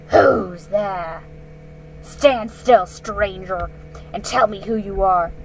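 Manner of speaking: loud, commanding guard wolf; stern challenge. Acted. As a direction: bark the challenge at the stranger.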